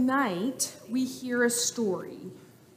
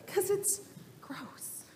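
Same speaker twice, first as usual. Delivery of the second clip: breathy disgusted whisper of "gross"; 8 semitones higher, 11 dB quieter, slower than usual. Acted. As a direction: make it sound yucky. Teacher acting disgust.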